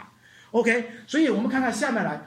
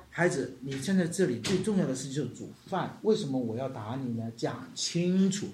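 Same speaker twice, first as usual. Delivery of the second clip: put-on a mother calmly explains to her child why she scolds; patient explaining; 5 semitones lower than usual. Shown as a demonstration. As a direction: talk it through calmly with the child. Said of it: "他应该跟我说".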